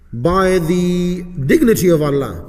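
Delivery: dictation pace with long pauses between phrases; slow repeat reading. Shown as a demonstration. Teacher repeating the supplication so students get it, slow dictation. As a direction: read it out slowly, leaving gaps to follow. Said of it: "I'll read it a bit slowly for you".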